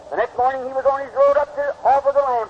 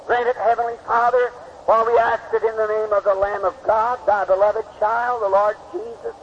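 prayer. Acted. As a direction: pray over the congregation, settling down into reverence. Preacher leads closing prayer.

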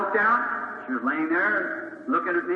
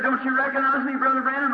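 woman's eager call; 6 semitones higher than usual. Retold or imitated. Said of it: "She said".

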